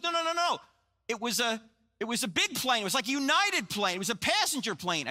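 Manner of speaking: high, urgent retelling of a panic; imitated frantic alarm. Pastor on the phone correcting his friend, high mock panic. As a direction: act out someone insisting in alarm. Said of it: "suddenly he screams into the phone".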